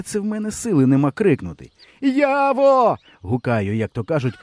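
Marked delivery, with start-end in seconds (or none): 2.0-3.0 very high, loud call; calling at full blast. A narrator's reading. Boy calls his friend at the top of his lungs. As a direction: yell the name with all your strength. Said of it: "на повну котушку".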